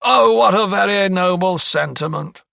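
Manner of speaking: high, loud mock admiration; sneering. A narrator's reading. Lawyer dismisses the doctor's warning, sneering. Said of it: "sneered Sir Montague".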